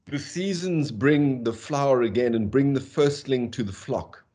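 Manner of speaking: slow, measured poetry reading; poem reading. Shown as a demonstration. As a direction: read the verse slowly and evenly. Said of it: "I'll read it out slowly".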